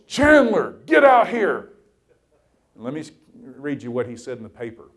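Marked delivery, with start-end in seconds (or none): 0.1-1.7 loud, high call across the field; booming coach yelling a player over; coach's yell. Retold or imitated. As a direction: shout his name to bring him out.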